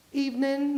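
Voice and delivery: "Evening" said as "evenin'"; dropped G. Shown as a demonstration. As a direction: end "Evening" on an n, no g. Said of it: "no G there".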